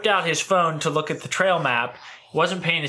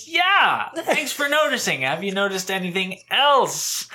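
much higher, dad's exact lilt; impersonating his dad; 6 semitones higher than usual. Retold or imitated. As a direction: play dad fishing for a compliment. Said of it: "whenever you do your dad".

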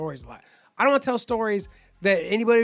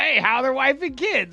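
put-on raised voice with Boston accent; mock Boston accent; 7 semitones higher, 5 dB louder than usual. Roommate answering the yelling, mock Boston accent. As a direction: imitate a Boston accent, higher and louder. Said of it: "Boston accent".

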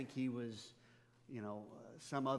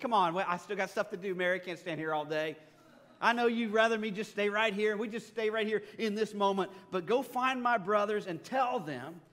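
louder, higher, a lightly voiced cheerful Jesus; playful Jesus; 4 semitones higher, 6 dB louder than usual. Jesus gently hurrying Mary away from the tomb, lightly voiced and cheerful. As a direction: nudge her along with a grin in the voice.

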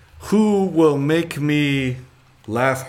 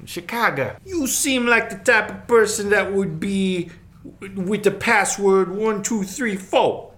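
put-on higher-pitched Chicago accent; 6 semitones higher than usual. Host reading a card for the judge, Chicago accent. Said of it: "Oh, there it is".

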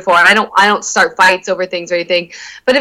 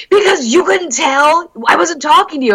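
mock indignant boyfriend; 6 semitones higher than usual. Boyfriend explaining his silent anger, mock indignant. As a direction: imitate his aggrieved comeback. Boyfriend's angry reply, acted.

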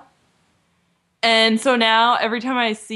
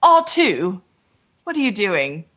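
C-3PO impression. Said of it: "I can't do his voice very well".

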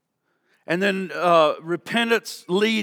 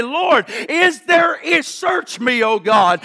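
pleading prayer cry; 2 semitones higher, slower than usual. Acted. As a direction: cry out slowly, begging God to search you. Preacher acts out a prayer cry.

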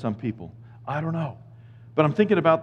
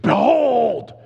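"Behold" called out higher and louder; "Behold" lifted high and loud, falling at the end; proclaimed behold; 8 semitones higher, 5 dB louder than usual. Shown as a demonstration. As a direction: ring out "Behold" like a herald. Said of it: "We need to scream".

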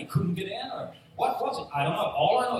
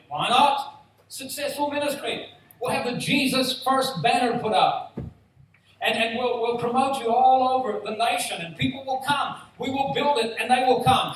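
loud, higher, salesman hype; mock hype; 8 semitones higher, 6 dB louder than usual. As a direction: sell it like a pushy promoter. Crowd pushing a successful ministry.

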